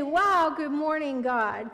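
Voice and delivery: a cheerful, amazed good morning to God; bright greeting. Shown as a demonstration. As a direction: greet God with real delight.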